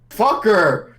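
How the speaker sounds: yelling at the dice; frustrated yell. Real, not acted. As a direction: spit out the curse. Player reacts to roll.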